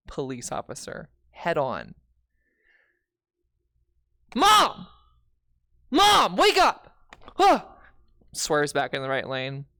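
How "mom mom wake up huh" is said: high, very loud alarmed shout; screamed wake-up call, drawn out; panicked yell. Retold or imitated. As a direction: yell to jolt a sleeping driver awake. Yelling to wake mother while driving.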